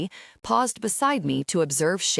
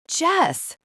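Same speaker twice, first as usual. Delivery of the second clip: high wailing cry of the name; 11 semitones higher than usual. A narrator's reading. Pinned boy calls to his counselor, high wail. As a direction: wail for help like a pinned kid. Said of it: "Shane wailed".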